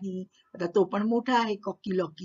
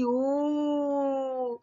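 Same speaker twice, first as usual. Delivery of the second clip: a high scared hen's cry; a high "oh" of a startled hen; frightened squawk; 5 semitones higher than usual. Acted. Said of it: "घाबरून ओरडली".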